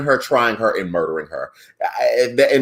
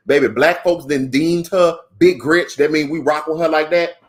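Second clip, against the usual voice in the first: relaxed Black vernacular accent coming through; 3 semitones higher than usual. Real, not acted. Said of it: "You heard that accent come out".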